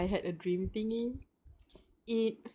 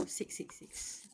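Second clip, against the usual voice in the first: eerie whisper; 13 dB quieter, slower than usual. Real, not acted. Reading eerie room number.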